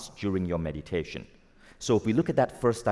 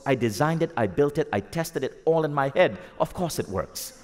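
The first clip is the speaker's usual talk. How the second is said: higher, insistent list dropping to a final verdict; acted indignant inventor, punching each claim; emphatic Tesla; 5 semitones higher than usual. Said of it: "Tesla goes".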